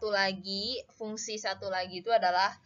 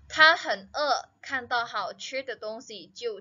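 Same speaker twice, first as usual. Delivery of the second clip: emphatic example read; 4 semitones higher, 3 dB louder than usual. Shown as a demonstration. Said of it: "reads example sentence aloud".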